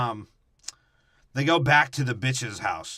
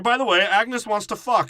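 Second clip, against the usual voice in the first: playful character voice; 10 semitones higher, 7 dB louder than usual. Pretend. Voicing movie character.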